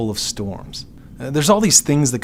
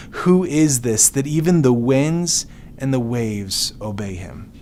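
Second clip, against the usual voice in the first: awed whisper; slower than usual. Acted. Disciples in awe.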